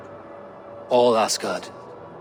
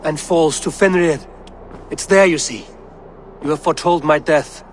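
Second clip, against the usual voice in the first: higher-pitched, pressing confrontation; agitated accusation; 3 semitones higher than usual. Acted. God confronts the seeresses who foretold his death, agitated. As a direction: throw the prophecy back at them, pitched up.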